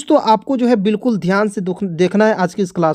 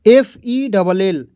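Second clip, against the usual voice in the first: slow spelling; much slower than usual. Shown as a demonstration. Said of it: "ध्यान से देखिएगा".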